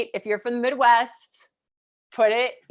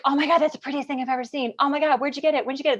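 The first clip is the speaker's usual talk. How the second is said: lightly mimicked gushing, in a quick rush; mock fuss over it, words tumbling out; gushing imitation; 3 semitones higher, much faster than usual. Sales ladies admiring her tattoo, lightly imitated gushing. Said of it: "freaking out over my tattoo".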